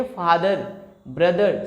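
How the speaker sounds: फादर and ब्रदर with a clear r at the end; American pronunciation. Shown as a demonstration. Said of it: "American English हो जाएगा।".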